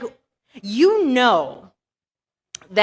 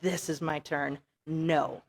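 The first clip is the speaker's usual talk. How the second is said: whispered spirit answer; 7 semitones lower, 12 dB quieter than usual. Pretend. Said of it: "And so I was like".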